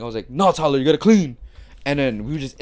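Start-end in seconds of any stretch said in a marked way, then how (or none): 0.3-1.4 raised, pushy mock nagging; nagging insistence. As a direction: act out badgering him to get moving. Acting out nagging Tyler to clean.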